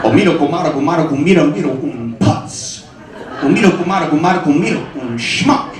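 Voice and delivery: a hint of a wife scolding in fake Spanish, laughing; mock Spanish scolding. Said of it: "get yelled at in two languages".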